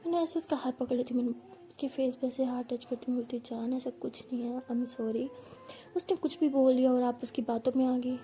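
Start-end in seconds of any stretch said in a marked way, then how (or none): 3.4-5.3 softer, gentle apology; soft consoling. Retold or imitated. Consoling her hurt girlfriend, softly apologetic. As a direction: hush the voice to comfort her.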